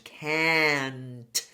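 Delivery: "Can't" with a bright open ah. Shown as a demonstration. Coach shows the bright ah in can't. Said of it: "A bright ah sound".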